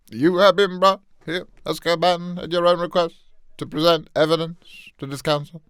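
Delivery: a commanding judge at a council hearing; Barty Crouch. Acted. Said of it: "Give me some good Barty Crouch".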